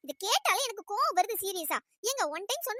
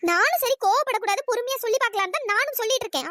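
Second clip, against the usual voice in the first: louder, exasperated protest; angry outburst; 4 dB louder than usual. Acted. Girl to the pestering classmate, loud exasperated protest. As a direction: she has run out of patience.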